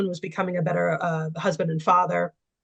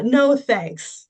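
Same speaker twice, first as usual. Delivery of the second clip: higher, louder put-on Southern refusal; hammed-up Southern twang; mock Southern accent; 5 semitones higher, 4 dB louder than usual. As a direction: brush it off in a fake Southern accent. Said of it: "affected my, uh, best Southern accent".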